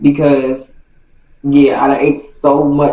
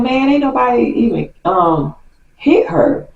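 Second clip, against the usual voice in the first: defensive denial; 9 semitones higher than usual. Retold or imitated. Cousin denying it.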